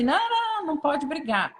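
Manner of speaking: sharp high "não", then a mock scold. Parent scolding fighting kids, mock sharp no. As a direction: imitate a parent snapping at kids to stop. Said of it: "chegar e falar assim".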